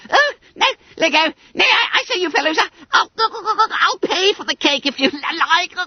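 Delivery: high gurgling plea. A narrator's reading. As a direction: gurgle it upside down. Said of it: "gurgled Bunter".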